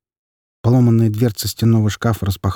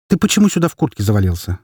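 quick, stern question; mother sternly questioning her son, fast; faster than usual. Acted. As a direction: scold him briskly. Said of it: "строго спросила она".

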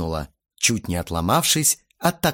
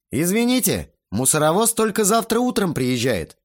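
higher, mock-apologetic reply; smirking retort; 8 semitones higher than usual. A narrator's reading. Teenager answers the shouting aunt, smirking mock apology. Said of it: "криво ухмыльнулся я".

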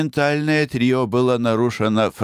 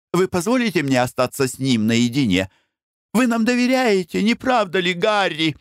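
Blanche, coaxing; 10 semitones higher than usual. Acted. Бланш обращается к Пену и Гарри.

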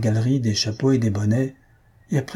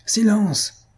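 furious yell; 10 semitones higher than usual. Acted. Maroquin yelling at the laughing audience, furious. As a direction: silence the mocking hall with one angry cry. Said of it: "hurle le Maroquin furieux".

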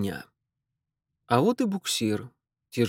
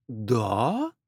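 ironic surprise. A narrator's reading. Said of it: "с густой изумлённой иронией переспросила".

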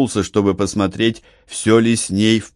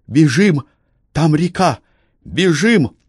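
higher, urgent call to run; 8 semitones higher than usual. A narrator's reading. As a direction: rush him toward the river. Eleonora urges flight. (срочный зов, Элеонора торопит)

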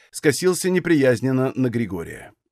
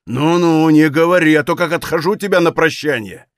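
anger building into a louder threat; enraged; 2 semitones higher, 3 dB louder than usual. Acted. Enraged Григорий standing over Валет, threatening to hit him. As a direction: order him out, barely holding back fury. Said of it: "Выкрик валета взбесил его окончательно".

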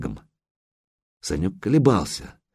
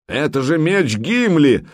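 crying out; 5 semitones higher than usual. A narrator's reading. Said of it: "возопил переводчик".

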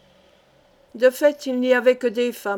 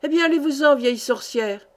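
growling threat; 3 semitones higher than usual. Acted. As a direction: bark her away with the whip raised. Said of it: "gronda l'autre Turc".

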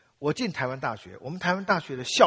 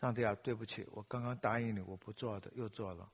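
soft, shrinking apology fading almost to nothing; a guilty whisper-soft prayer trailing off; sheepish confession; 4 semitones lower, 9 dB quieter than usual. Retold or imitated. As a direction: confess it quietly, ashamed to face God. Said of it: "我一跪下来祷告说".

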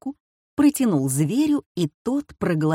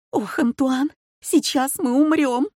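high, panicked cry; she's sure they'll die, voice pitched up; wife crying out to her husband in terror; terrified; 7 semitones higher than usual. A narrator's reading.

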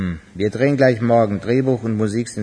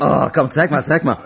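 louder, pushy show-me; eager; 3 semitones higher, 4 dB louder than usual. Acted. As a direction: grab for the paper. Eager to see the lot.

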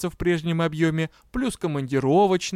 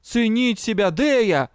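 angry growl, pitched up; 6 semitones higher, 4 dB louder, slower than usual. A narrator's reading. Дроу corrects colleague's guess about his lesson, growling. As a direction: correct her in exasperation. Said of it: "прорычал Дроу".

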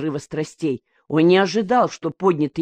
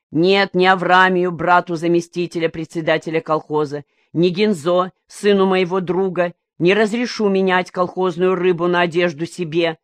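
somewhat solemn. Acted. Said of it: "начал Коника несколько торжественно".

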